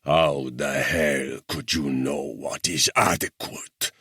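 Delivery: high, loud, slow furious tirade; thundering rage. A narrator's reading. Guerrilla chief rages at the English officer, thundering. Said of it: "he thundered".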